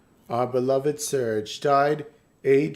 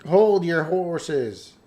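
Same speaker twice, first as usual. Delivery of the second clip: slow drawn-out; 2 semitones higher, 3 dB louder, much slower than usual. Acted. Reading villain line dramatically.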